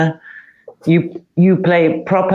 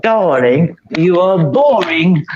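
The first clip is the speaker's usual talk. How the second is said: spoilt friend; 3 semitones higher than usual. Retold or imitated. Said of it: "she was a pain".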